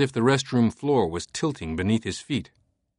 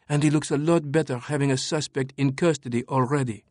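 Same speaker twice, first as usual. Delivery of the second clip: higher, cool French woman; 4 semitones higher than usual. Acted. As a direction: calmly lay out the facts as her. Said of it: "Sophie sighed".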